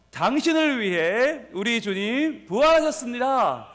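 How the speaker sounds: slow rallying proclamation; big voice. Real, not acted. Pastor leads congregation facing the other neighbour, calling out. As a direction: call it out with drawn-out phrases. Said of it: "큰 목소리로".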